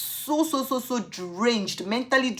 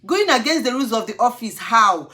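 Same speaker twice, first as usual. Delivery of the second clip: louder, higher angry retort; 3 semitones higher, 7 dB louder than usual. Retold or imitated. Answering the officer's accusation, loud and high. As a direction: throw his words back. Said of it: "I was like".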